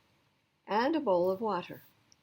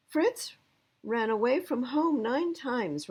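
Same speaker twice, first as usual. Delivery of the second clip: put-on higher and louder, eager kid telling; lightly voiced boy; 6 semitones higher, 5 dB louder, slower than usual. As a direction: blurt it like a child sharing news. Boy tells about old dog.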